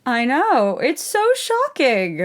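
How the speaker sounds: slow, high mock shock; deadpan fake astonishment; sarcastic. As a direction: drip sarcasm, feign amazement. Sarcastic reaction to a trope.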